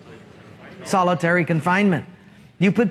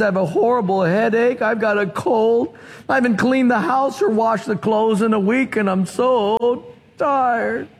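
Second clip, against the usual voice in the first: exhausted mother. Acted. Worn-out friend listing her troubles.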